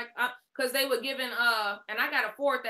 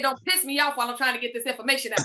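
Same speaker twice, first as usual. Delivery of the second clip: quoting a caller; 5 dB louder, faster than usual. Retold or imitated. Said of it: "Quiet Obsessive said".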